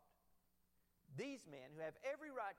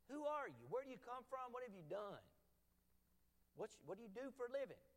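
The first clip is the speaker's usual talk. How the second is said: higher, louder, rapid-fire questions; sailors interrogating; 5 semitones higher, 3 dB louder than usual. Retold or imitated. Frightened sailors demanding Jonah say who he is, loudly.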